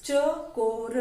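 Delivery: चकोर drawn out a little, syllable by syllable; teacher carefully sounding out चकोर; slow sounding out. Shown as a demonstration. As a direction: stretch चकोर gently into its sounds. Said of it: "एक साथ बोल के देखो".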